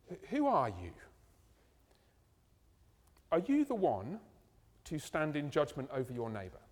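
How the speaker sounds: "who are you?" asked as an open, searching question; positive reading. Shown as a demonstration. Preacher voicing the gentle reading of James, inviting. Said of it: "But you could take it positively".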